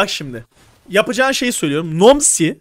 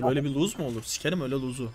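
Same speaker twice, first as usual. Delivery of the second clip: frustrated low grumble; 6 semitones lower, 10 dB quieter, faster than usual. Real, not acted. Coach frustrated at lost fight.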